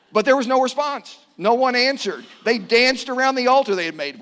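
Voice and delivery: loud, high scripture declaration; emphatic proclamation. A narrator's reading. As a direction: ring it out to the whole congregation. Preacher proclaims the failed pagan ritual.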